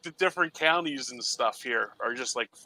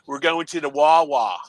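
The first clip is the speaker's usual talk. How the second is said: lightly exaggerated Delco, Philly-area accent; Delaware County accent; 2 semitones higher than usual. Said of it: "where I am in Delaware County".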